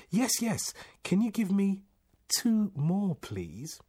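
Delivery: high, loud, desperate agreement; eager begging. A narrator's reading. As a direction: seize the offer and plead. Desperate man eagerly begs for questions.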